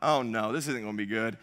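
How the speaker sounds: low, hushed dread; inner thought. Retold or imitated. Husband reading wife's urgent text, hushed inner dread. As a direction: drop right down, as if thinking to yourself. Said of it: "in my head, I thought".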